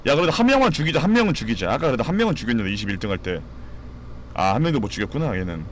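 usual speaking voice

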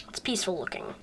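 soft breathy whisper. Acted. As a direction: whisper it peacefully. Whispered aside about peaceful scene.

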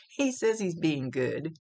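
amused, drawn-out relay; holding back a laugh. Real, not acted. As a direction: stretch it out, tickled by it. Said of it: "I'm laughing at the way he said it".

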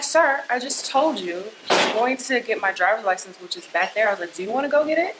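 insistent, pitch climbing on the challenge; indignant protest. Retold or imitated. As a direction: reenact pushing back at an officer. Retold protest to armed officer.

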